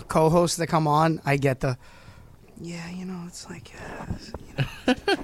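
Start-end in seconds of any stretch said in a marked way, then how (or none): 2.6-5.2 whispered, barely audible bro mumble; frat bro mumble. Retold or imitated. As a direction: mumble it off-mic like a shy co-host. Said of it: "Bro, you gotta speak into the mic".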